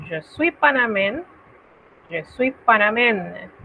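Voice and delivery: je suis panamen said twice in French; teacher demo; French model phrase. Shown as a demonstration. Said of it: "te dirá".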